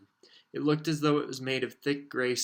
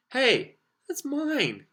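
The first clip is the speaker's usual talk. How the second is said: put-on boy claiming wand; 13 semitones higher, 7 dB louder, much slower than usual. Harry claims his wand.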